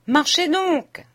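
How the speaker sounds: high, slow, angry command; furious cry. A narrator's reading. Léon furiously orders the coachman on, high and slow. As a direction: drive him on in fury. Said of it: "s'écria la voix plus furieusement".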